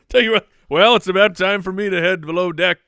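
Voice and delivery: loud, high pirate voice. Pretend. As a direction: announce it like an old pirate. Playing a pirate.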